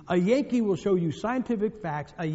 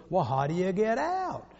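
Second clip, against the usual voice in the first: put-on slow, drawled Southern accent; Southern gentleman; slower than usual. Southern gentleman asking about purgatory, slow Southern drawl. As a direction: draw the question out, Southern style. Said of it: "Same guy, same guy".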